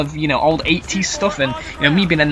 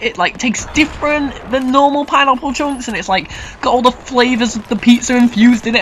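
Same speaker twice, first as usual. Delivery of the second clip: gushing about pizza; 5 semitones higher than usual. Real, not acted.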